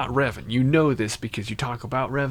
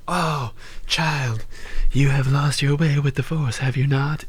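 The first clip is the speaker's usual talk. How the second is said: a hint of a knowing old mentor, raised and slightly lilting; old mystic lady; 4 semitones higher, 3 dB louder than usual. Streamer voicing Kreia to the player, lightly mocking old mystic. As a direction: lightly voice the old sage who sees through you. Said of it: "old A S M R lady, she was like".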